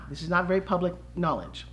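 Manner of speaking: secretive whisper. Real, not acted. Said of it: "between you and I".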